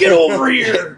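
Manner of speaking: slow, high growled game-villain yell; Scorpion shout. Retold or imitated. Buddy quoting the game's spear grab in a slow game-villain yell. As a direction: drag the words out like a fighting-game villain. Mortal Kombat Scorpion quote.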